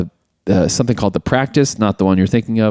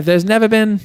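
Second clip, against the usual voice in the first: higher put-on old lady voice; imperious grandmother; 9 semitones higher than usual. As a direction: quote the grandmother haughtily. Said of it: "what does she say?".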